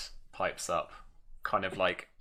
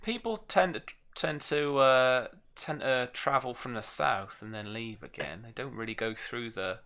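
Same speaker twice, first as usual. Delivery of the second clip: put-on Norfolk accent. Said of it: "My Norfolk accent".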